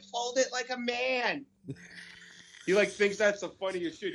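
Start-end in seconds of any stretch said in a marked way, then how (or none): 0.0-1.4 quoting the ad. Retold or imitated. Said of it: "the lady was like".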